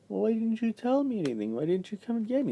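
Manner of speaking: high, fast mock indignation; indignant job coach. Job coach scolding him afterwards, high and quick. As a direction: whine it back as the coach. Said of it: "She was like".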